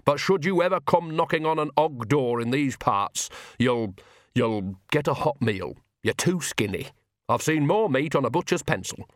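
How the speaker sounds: lightly voiced blunt countrywoman; a hint of grudging hospitality; gruffly kind village woman. Nanny offers the preacher a meal, mildly gruff.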